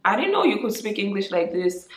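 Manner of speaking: acted amazement, tapering off; mock surprise. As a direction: imitate someone taken aback. Mimics people surprised by her English.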